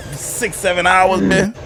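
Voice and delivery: high, drawn-out disbelief; incredulous. Real, not acted. Listener reacting to a date gone for hours, incredulous.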